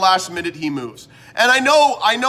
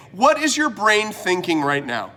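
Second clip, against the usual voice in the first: higher and louder, incredulous scolding; exasperated telling-off; 4 semitones higher, 3 dB louder than usual. Retold or imitated. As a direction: let the reader blocking the shelf have it. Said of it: "all I wanna do, again, is say".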